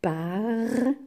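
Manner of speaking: parfum cut into par, long pause, fum; two separate syllables. Shown as a demonstration. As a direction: hold par, stop, then give fum. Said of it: "Deux syllabes".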